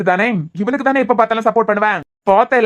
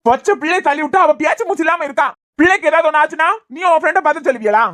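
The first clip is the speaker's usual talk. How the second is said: angry accusation; 5 semitones higher than usual. Acted. Furious husband scolds wife's friend.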